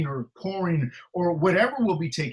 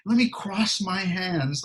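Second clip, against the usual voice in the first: lazy person; 4 semitones higher, slower than usual. Retold or imitated. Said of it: "Lazy people say".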